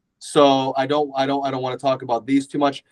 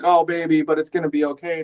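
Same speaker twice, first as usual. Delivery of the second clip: higher, mock-tender reassurance; soothing husband; 3 semitones higher than usual. Husband comforts his sobbing wife, soothing. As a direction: gently console an upset partner, lightly acted.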